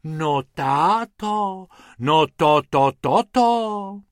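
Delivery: slow, drawn-out amazed sighs; astonished wife sighing at husband. Acted. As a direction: sigh it out slowly in wonder. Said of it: "v jednom kuse vzdychala".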